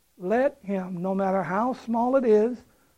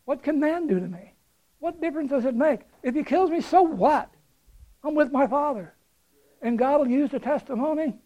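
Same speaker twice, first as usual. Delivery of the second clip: higher, bold and brisk so what attitude; defiant confidence; 5 semitones higher than usual. Acted. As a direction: toss it off fearlessly. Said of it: "Our attitude should be".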